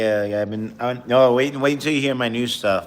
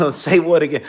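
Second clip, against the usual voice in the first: loud, high, threatening interrogation bark; Samuel L. Jackson; 8 semitones higher, 8 dB louder than usual. Retold or imitated. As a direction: bark the question at him menacingly. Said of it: "Samuel L. Jackson".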